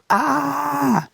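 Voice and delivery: a high, strained "Ah" like a man in pain; imitated pain cry. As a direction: cry out as the dying father did. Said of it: "he would get the paper and go like".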